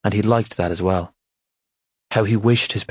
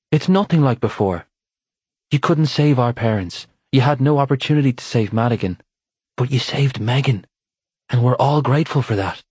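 earnest brother, pitched higher; a hint of an earnest younger brother; lightly voiced brother; 5 semitones higher than usual. Aidan voiced higher, insisting.

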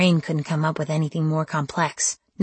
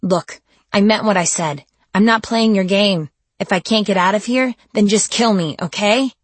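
higher and louder, desperate anger; angry outburst; 4 semitones higher, 6 dB louder than usual. Acted. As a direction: shout at him, begging to end it. Captive shouting at captor.

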